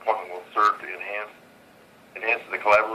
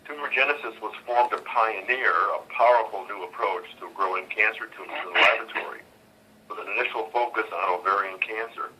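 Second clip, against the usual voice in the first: on speakerphone. Real, not acted. Earnings conference call over phone.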